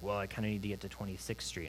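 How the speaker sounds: low, soft retold mumble; quiet, low mumble to himself; mumbled under breath. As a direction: imitate someone muttering under their breath. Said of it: "he kinda mumbles under his breath".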